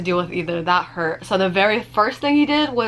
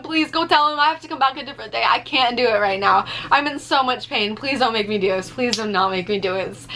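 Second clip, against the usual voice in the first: begging; 2 semitones higher than usual. Retold or imitated. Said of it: "begging him".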